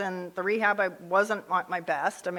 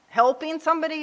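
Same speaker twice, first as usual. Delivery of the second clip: mock disbelief; 8 semitones higher, 5 dB louder than usual. Mocking her old attitude.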